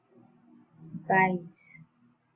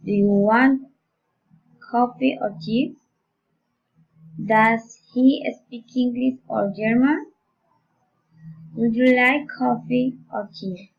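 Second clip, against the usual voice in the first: alternative questions, "coffee" raised, "tea" as the second choice; rising and falling intonation. Shown as a demonstration. Teacher modelling alternative questions, rising and falling intonation. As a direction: lift the first choice, "English", then close on the second. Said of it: "rising and falling intonation".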